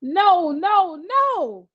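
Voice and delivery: a mild panicked no no no; blurting in panic. A narrator's reading. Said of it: "she continued to blurt".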